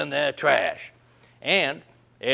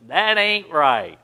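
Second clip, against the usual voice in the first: slow disapproving; 5 dB louder, slower than usual. Retold or imitated. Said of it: "she looked at me and said".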